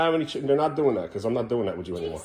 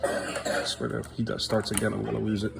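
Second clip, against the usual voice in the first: exasperated mutter; 5 semitones lower, 7 dB quieter than usual. Real, not acted. Exasperated at child's tantrum.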